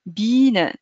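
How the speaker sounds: slow بينا with a long ee vowel, like Biene; بينا said as bee-na, a long ee; German ie sound. Shown as a demonstration. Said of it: "ما قلتوليش بيان".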